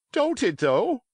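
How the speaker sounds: high, bright eager exclamation; young pirate Dick, thrilled, answering Silver; joyful cry. A narrator's reading. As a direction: crow it out with sudden delight. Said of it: "cried Dick with a sort of joy".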